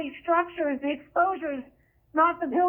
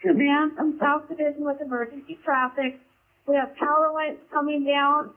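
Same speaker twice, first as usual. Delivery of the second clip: urgent firefighter radio; 8 semitones higher than usual. Real, not acted. Emergency traffic over radio.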